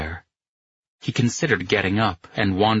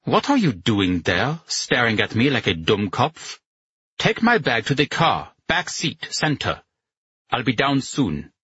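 snarled; 4 semitones higher than usual. A narrator's reading.

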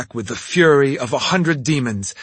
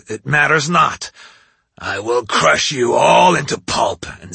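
raging demon. Acted. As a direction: bellow the threat like a brute. Oni threatens demon slayer.

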